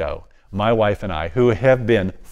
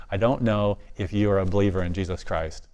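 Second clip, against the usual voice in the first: softer, hushed and careful; dropped voice; 3 semitones lower, 6 dB quieter than usual. Retold or imitated. Father quietly addressing the officer, hushed. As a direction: drop the voice to a near hush. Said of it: "I just dropped my voice".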